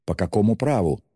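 acted indignation, pitch lifted; offended cry. A narrator's reading. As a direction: demand it, stung and affronted. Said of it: "вскричала обиженная девушка".

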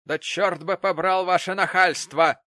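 loud, high burst of rage; mockery snapping into fury; furious shout. Betsey Prig flaring up at Mrs Gamp, furious shout. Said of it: "закричала миссис Прик".

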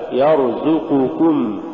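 slow يرزقكم with a thin zay; correct light zay. Shown as a demonstration. Teacher models the correct word, light zay in يرزقكم. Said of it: "الصواب".

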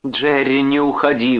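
high, urgent woman's plea; pleading. A narrator's reading. Wife begs her departing husband, pleading. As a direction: beg him to stay. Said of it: "взмолилась Джон".

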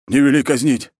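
high, loud begging; frightened plea. Acted. Bodyguard falls begging before khan, high frightened plea. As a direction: cry out for mercy.

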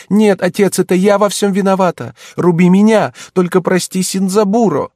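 очень высокий громкий крик мольбы; кричи, вымаливая смерть себе; отчаянный крик. Acted. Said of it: "закричала Уцую". (громкий высокий отчаянный крик)

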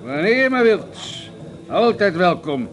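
hearty invite. Acted. Boisterous host inviting teacher.

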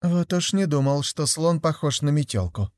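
выше, с удивлением на «не»; изумись открытию; удивлённый слепой. Acted. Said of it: "сказал". (слепой делится открытием, удивлённо)

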